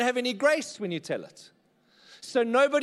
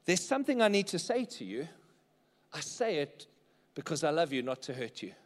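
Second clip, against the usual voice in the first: sincere statement; 3 semitones lower, 4 dB quieter than usual. Shown as a demonstration. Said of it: "Statement number four is this".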